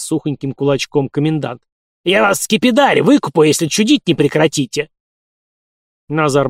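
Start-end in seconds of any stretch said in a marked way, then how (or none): 2.0-4.9 put-on old man shouting. A narrator's reading. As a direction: bark a command like an old caretaker. Caretaker threatening. (крик старика)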